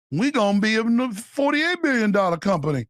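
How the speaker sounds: a hint of a Cajun executive; light Cajun accent. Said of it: "the coon-ass voice".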